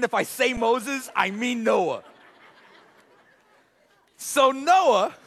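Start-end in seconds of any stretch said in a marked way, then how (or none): none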